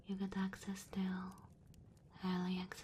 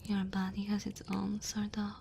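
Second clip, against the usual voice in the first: tender dragon woman. Acted. Dragon woman warming a human by her fire, tender. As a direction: comfort the cold guest, gentle and unhurried.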